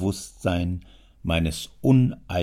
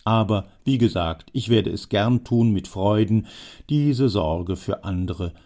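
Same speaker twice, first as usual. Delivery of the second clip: put-on a louder, pushy old man; old man pressing, louder; old Jammer, insistent; 5 dB louder than usual. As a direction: lean in and press your case as the old schemer. Jammer speaks to the father.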